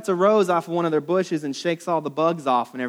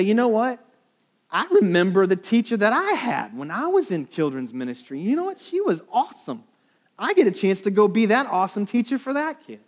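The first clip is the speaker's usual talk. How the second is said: higher, bright eager remembering; eager volunteer; 6 semitones higher than usual. Pretend. A volunteer recalling a great teacher, eager. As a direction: sound genuinely glad to serve. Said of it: "Or you could say".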